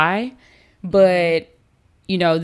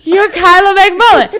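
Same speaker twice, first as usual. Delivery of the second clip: loud, high-pitched fangirl exclamation; starstruck outburst; 12 semitones higher, 10 dB louder than usual. Retold or imitated. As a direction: re-enact blurting it out in overwhelmed excitement. Louder repeat of starstruck recognition.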